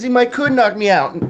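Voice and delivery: high, loud scolding woman's voice; mock furious neighbor lady; angry lady from skit. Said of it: "He goes".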